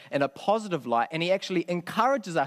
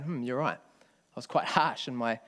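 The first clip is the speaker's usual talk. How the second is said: reflective concession. Retold or imitated. Preacher voicing Simon reconsidering his harsh judgment, reflective concession. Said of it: "Looking at the context and going".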